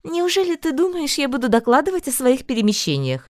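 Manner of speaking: high, scolding; lightly voiced indignant mother; reproachful mother. A narrator's reading. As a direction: chide him from up high.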